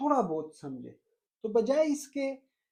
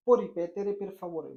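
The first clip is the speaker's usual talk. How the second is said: slow model phrase; much slower than usual. Shown as a demonstration. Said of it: "पूछो".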